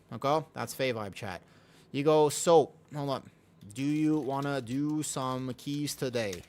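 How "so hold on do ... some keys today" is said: drawn-out sugary request; slow sweet ask. Shown as a demonstration. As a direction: stretch it out, friendly and hopeful. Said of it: "Like this".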